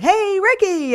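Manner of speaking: yelling out. Acted. Driving past, she yells to her father-in-law at the top of her lungs. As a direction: call out to him at the top of your lungs. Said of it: "impulsively yell out".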